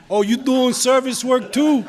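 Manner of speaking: high, loud feigned surprise; gushing fake coincidence, played for laughs; mock flirting. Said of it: "a little more innocent than that".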